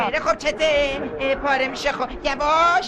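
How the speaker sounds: pitched well above his normal voice; strangely high, unnatural speaking voice; odd high voice. Real, not acted. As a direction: talk up high, as if something is off with your voice.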